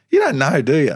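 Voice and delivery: high, loud disbelief; excited mate. Retold or imitated. Teammate on the phone realising he hasn't heard, excited. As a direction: imitate a mate bursting with news. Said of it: "the excitement in his voice".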